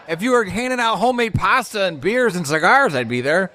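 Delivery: quip with a laugh in it; laughing retort. Retold or imitated. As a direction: laugh through your own comeback. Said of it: "I'm like".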